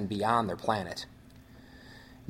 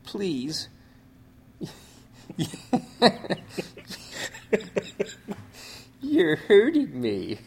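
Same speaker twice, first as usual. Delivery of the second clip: strained, high and slow; weak voice; 7 semitones higher, much slower than usual. Retold or imitated. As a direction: plead faintly, in pain. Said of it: "in a weak voice".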